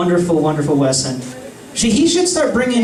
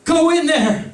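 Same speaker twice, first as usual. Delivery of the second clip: high, halting mock shriek; hammed-up jealous outburst; possessive warning; 11 semitones higher, slower than usual. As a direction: warn them off, pausing between bursts.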